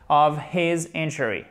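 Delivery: Of his injury with his linked and short I; linked, no dropped h. Shown as a demonstration. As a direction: stress injury on the first syllable, short I. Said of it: "ne faites pas de H aspiré".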